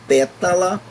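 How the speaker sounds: pétala with "pé" stressed; stress on first syllable. Shown as a demonstration. Teacher gives a proparoxítona example, stress on "pé" of pétala. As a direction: hit the "pé" in pétala. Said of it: "o pé é a palavra mais".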